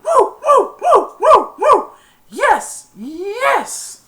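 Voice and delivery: high, loud, slowed battle cry; rally the team like a wild fan; fierce cheer. Retold or imitated. Mom cheering the team on, in a high, loud battle cry. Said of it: "she said".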